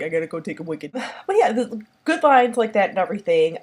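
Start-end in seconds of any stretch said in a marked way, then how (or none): 0.0-0.9 laughing quote. Retold or imitated. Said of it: "you're just like".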